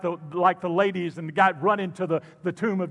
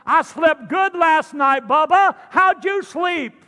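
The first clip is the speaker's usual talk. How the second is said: higher, louder, slow and teasing; casual street Daniel; 8 semitones higher, 6 dB louder than usual. Retold or imitated. Pastor's Daniel teasing the king after a good night, slow and gloating. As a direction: gloat lazily like a cocky friend. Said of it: "this is what he said in the Hebrew".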